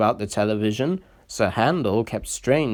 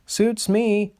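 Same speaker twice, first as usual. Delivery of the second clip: smiling; 10 semitones higher than usual. A narrator's reading. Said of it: "smiled Rusty".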